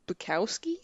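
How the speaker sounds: whispered, unsure of the name. Real, not acted. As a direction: breathe the name like a guess. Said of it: "I don't know how to say it".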